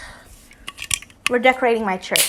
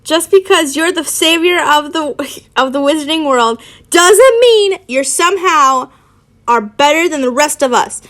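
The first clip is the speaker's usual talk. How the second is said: raised, irritated scolding; irritated shout; 4 semitones higher, 4 dB louder than usual. Acted. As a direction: argue back with mounting irritation. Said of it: "Harry shouted, irritated".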